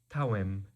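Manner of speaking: "Tawim" begun with a t sound. Shown as a demonstration. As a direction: say "Tawim" with ta, though spelled with D. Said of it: "it becomes a ta sound".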